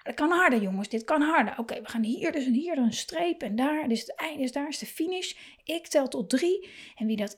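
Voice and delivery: put-on high, cheering coach voice spurring the kids; egging on. Parent spurring kids in a race, excited high cheering. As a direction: rev the kids up like a race starter. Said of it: "opjutten als in".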